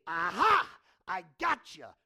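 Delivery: loud triumphant mock "gotcha"; mock gotcha shout. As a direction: bark it out like catching a cheat. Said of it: "what does God say?".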